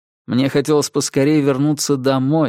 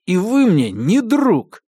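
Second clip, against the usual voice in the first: slow, louder, higher angry growl; 8 semitones higher, 3 dB louder, slower than usual. A narrator's reading. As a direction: bite out each word. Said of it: "прорычал я". (злобно прорычать)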